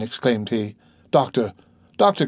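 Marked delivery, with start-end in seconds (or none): 2.0-2.3 high, loud cry. A narrator's reading. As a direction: cry out desperately for doctor. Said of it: "cried Berroir".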